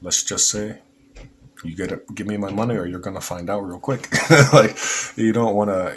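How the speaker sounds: a hammed-up Mexican accent, fast; a coyote threatening in a bad Mexican accent; light mock Mexican accent. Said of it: "that's my worst Mexican accent".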